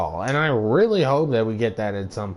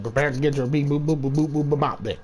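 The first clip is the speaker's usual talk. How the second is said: robot beeps; 4 semitones higher than usual. Pretend. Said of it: "trying to be funny with it".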